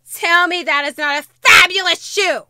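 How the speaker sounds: loud, thrilled exclamation; excited shout. Real, not acted. Showing viewers new shoe, excited shout. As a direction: shout your delight at the shoe.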